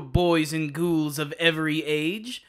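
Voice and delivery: slow, spooky Halloween host; creepy trick-or-treat welcome; jack o lantern voice. Acted. Spooky Halloween show opener.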